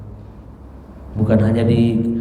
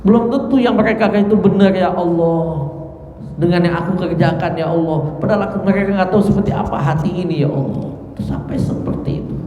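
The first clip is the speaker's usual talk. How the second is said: higher, strained pleading to God; fearful pleading prayer; 5 semitones higher than usual. Retold or imitated. Abu Bakar pleading with God, afraid of praise, high and strained. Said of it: "Abu Bakar malah akan ketakutan".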